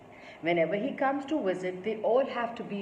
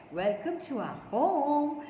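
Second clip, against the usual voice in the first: higher, gently lilting welcome; gentle; 6 semitones higher than usual. A narrator's reading. Mum greeting grandpa at the door, gentle. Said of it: "come in and say gently".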